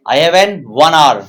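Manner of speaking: slow, word by word dictation pace; slow model sentence for note taking. Shown as a demonstration. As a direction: spell it out slowly for the class. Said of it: "teacher models sentence slowly".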